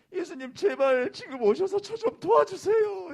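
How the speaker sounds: high, loud, drawn-out prayer; acted cry of supplication; desperate pleading. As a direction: beg Jesus for help with all your might. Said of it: "간절히".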